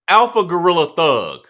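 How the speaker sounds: over-the-top shout-out to a viewer; hype name call. Pretend. Hyping a viewer's username.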